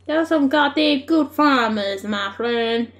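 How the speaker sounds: American twang on a farmer line; American accent. Acted. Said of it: "Now I sound so American".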